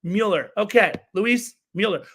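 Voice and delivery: Mueller as MYOO-ler, falling; corrected pronunciation. Shown as a demonstration. Host repeating the corrected name, Mueller as MYOO-ler. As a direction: settle on "Mueller" with a y glide. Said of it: "Joey is correcting me".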